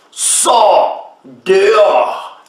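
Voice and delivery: preacher calls Lazarus out, very slow and commanding. Acted. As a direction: stretch each word out. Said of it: "traduction John Nelson Darby".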